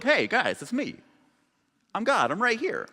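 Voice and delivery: put-on high-pitched, light New York accent; God announcing himself with a hint of New York. God showing up to greet humans, mock New York accent. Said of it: "doing a New York accent with God".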